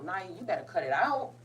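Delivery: firm, lifted warning to oneself; scolding oneself. Real, not acted. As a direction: pull yourself together out loud. Scolding self for getting emotional.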